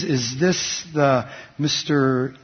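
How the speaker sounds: slow, halting hint of a Hebrew accent. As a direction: imitate a caller with a light Hebrew accent. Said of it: "He was speaking in Hebrew accent".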